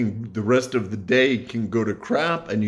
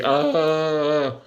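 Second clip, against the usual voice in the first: mock panicked groan; 5 semitones higher than usual. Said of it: "I can choose to come on here on YouTube and be".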